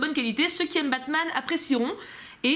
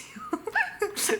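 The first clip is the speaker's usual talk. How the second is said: a burst of high-pitched giggling; giggling at herself; high giggle; 10 semitones higher, 3 dB quieter than usual. Real, not acted. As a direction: giggle helplessly. Laughing at own pronunciation.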